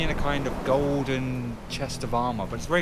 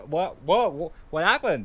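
put-on Australian accent; 6 semitones higher than usual. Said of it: "the Aussie way".

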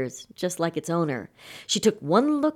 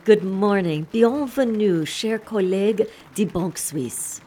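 bright, loud welcome to guests; multilingual tour guide greeting; 2 semitones higher, 3 dB louder than usual. Acted. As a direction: greet the group in many tongues. Tour guide greets Swiss bankers.

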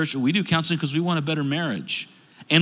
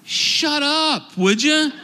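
mock annoyed; 11 semitones higher, 3 dB louder, much slower than usual. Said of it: "And I'm like".

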